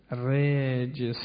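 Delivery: رجس said very slowly with a clear s at the end; s sound shown. Shown as a demonstration. Preacher to congregation, showing how رجس sounds. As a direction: stretch out رجس so the final s is heard. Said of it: "یعنی میگید رجز".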